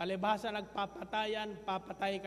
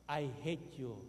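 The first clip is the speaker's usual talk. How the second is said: faint echo; 6 semitones lower than usual. Retold or imitated. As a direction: let it come back faint and far. Echo answering from the mountain.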